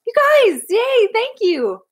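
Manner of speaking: high, loud burst of delight; thrilled, high-pitched gratitude; delighted thanks. Real, not acted. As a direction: squeal your thanks to generous viewers. Thanking viewers for donations.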